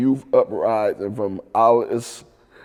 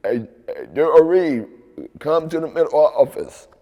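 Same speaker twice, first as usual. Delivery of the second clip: lightly imitated intercom summons; raised-voice retold office page; speaker announcement; 3 semitones higher than usual. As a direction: call him in over the loudspeaker. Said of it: "over the speaker".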